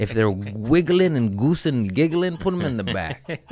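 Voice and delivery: laughing. Retold or imitated. Acting out meth heads.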